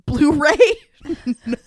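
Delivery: laughing mock question. Real, not acted. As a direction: giggle out the question.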